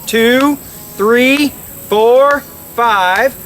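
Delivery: quacks cut off with the tongue; tongue-stopped duck quacks; duck call honks. Shown as a demonstration. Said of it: "I'm cutting the air off with my tongue".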